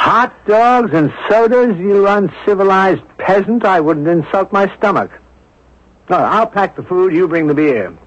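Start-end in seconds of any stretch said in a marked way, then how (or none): 0.0-5.1 mock disdain. Mock scorn at friend's lunch.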